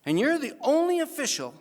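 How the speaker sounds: a towering captain booming down at the ref; loud, slowed, emphatic captain; big captain's verdict. Retold or imitated. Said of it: "he says".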